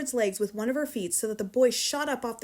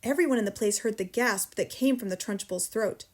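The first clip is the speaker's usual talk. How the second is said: plain reading voice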